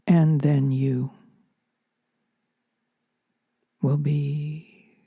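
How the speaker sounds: calm a newly arrived soul with a near-whisper; gentle welcome. Retold or imitated. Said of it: "you hear my voice or another voice saying".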